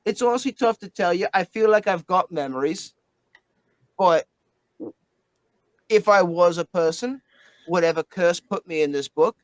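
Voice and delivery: a hint of an Australian bloke; Aussie accent. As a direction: play the Australian bloke a little. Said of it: "doing any more of Winston's voice".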